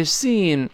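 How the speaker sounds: seen with a thin, drawn-out ee; long-vowel model of seen. Shown as a demonstration. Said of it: "是发长音一的声音啊".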